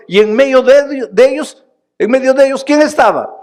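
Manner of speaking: climbing high and loud, hammering each phrase; full-force preaching. Acted. Preacher building to José before the congregation, loud and high. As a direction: preach it out to the whole hall.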